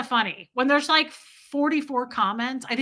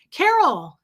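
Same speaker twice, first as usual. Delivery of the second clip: raised, louder acted call, falling at the end; mock calling out; 5 semitones higher, 7 dB louder than usual. Imagining him shoving her onto the tracks, mock calling out. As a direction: call out the name as the man in the story.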